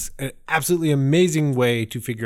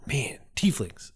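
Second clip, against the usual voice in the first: breathy hushed aside; awed whisper; 5 dB quieter, slower than usual. Real, not acted. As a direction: whisper it in wonder. Awed aside about tieflings.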